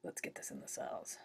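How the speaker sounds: low, whispered dude voice; low breathy casual murmur; insulin voiced. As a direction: insulin as a laid-back dude. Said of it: "insulin's like".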